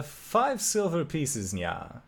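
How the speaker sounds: drawn-out price, cute nya ending; slow catfolk chef voice. Acted. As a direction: stretch the price, then a little nya.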